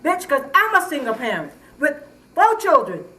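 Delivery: heated retort. Real, not acted. Neighbor quarrel, heated retort.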